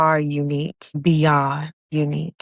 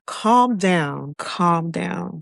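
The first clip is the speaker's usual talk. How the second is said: slow, drawn-out self-calming; acted slow reassurance to oneself; self-soothing; 2 semitones higher, much slower than usual. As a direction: talk yourself down slowly. Acting out soothing herself when angry.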